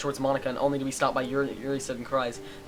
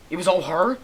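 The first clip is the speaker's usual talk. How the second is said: loud, high disbelieving cry; the truth hits all at once; shocked realization; 6 semitones higher, 8 dB louder than usual. Acted. Reader voicing the hero's stunned discovery, loud and high.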